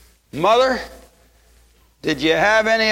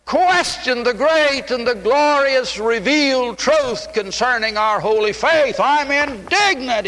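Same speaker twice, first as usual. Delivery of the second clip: building higher with each repeat; rising indignation; 5 semitones higher than usual. Acted. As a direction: climb in pitch line by line, indignant. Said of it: "he said".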